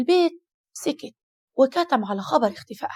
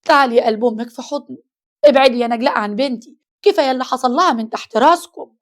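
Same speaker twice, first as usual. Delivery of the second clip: loud mother; 6 dB louder than usual. Acted. Mother hugging, scolding Naglaa.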